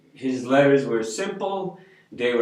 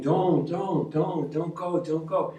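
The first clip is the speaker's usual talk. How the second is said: mock ghostly voices; 4 semitones higher, 3 dB quieter, slower than usual. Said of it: "almost like voices, like, saying".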